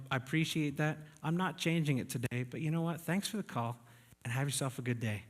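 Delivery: retold friendly brush-off on the phone; nice, polite. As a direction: kindly turn down a telemarketer, appreciative and friendly. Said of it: "I was nice to that guy".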